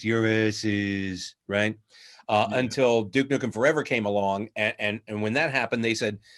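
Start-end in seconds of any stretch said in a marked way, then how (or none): 0.0-1.8 very slow, flat monotone drone through clenched teeth. Recalling a directed recording session, showing how it sounded: Duke Nukem voice, clenched teeth. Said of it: "sounded like this".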